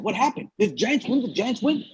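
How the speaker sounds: acting out a curious crowd asking around; puzzled crowd. Banquet crowd asking each other about the game, mildly puzzled. Crowd asks, confused, in retold story.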